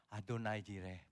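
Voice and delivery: low, soft Adonai Jireh; quietly. Shown as a demonstration. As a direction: say it gently, under the breath. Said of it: "pelan aja". (diucapkan pelan dan lembut)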